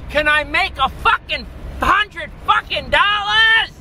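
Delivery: high, exasperated shouted question; infuriated. Real, not acted. Vlogger demanding a hundred dollars from his videos, infuriated shout. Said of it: "I'm infuriated".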